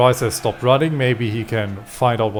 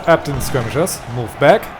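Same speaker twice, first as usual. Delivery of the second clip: shouting orders over battle; 3 semitones higher than usual. Real, not acted. Commanding troops under enemy push.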